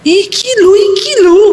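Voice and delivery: high, urgent imitation of husband; frantic excitement. Husband showing his wife the file, high frantic excitement. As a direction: point it out in a frenzy.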